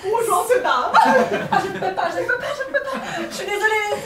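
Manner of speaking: hammed-up begging, loud bursts; playful terrified pleading; mock panic. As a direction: beg to be let out, laughing. Panicked prisoner begging to escape.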